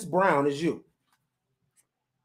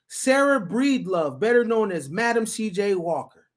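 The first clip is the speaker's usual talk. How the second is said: article read; 2 semitones higher than usual. Acted. Reading a news story to viewers, steady report voice.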